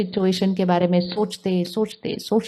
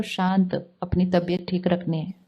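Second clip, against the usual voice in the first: softer, settled voice; calming self-talk; 3 semitones lower, 6 dB quieter than usual. Acted. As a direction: quietly soothe your own mind. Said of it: "मन को बोलो".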